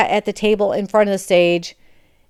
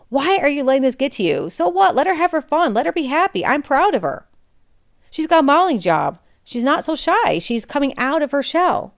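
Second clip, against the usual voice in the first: Mister J defending; 6 semitones higher than usual. Retold or imitated. Mister J defending Salty to Karen.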